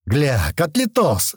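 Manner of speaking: шмыгая носом. Acted. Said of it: "шмыгнул разбитым носом упырь".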